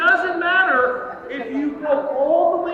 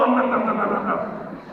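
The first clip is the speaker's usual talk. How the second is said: bear munching noise; 4 semitones lower than usual. Shown as a demonstration. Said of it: "and go".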